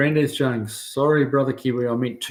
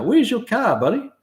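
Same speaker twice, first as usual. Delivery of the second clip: playful high question; 11 semitones higher than usual. Real, not acted. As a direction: call it out like a cheeky mate. Playful reply to viewer's request.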